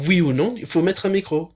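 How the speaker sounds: a hint of someone's characteristic questioning style; Jack. Retelling a friend's joke about the timer, lightly imitated. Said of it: "à la façon de Jack, avec sa façon caractéristique".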